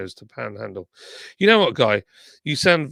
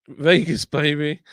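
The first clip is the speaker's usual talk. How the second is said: hyped; 3 semitones higher, 5 dB louder, slower than usual. Real, not acted. Reacting to Vegas greeting.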